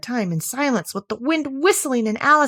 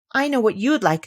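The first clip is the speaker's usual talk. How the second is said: good-natured; 2 semitones higher, 3 dB louder than usual. Acted. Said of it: "good-naturedly".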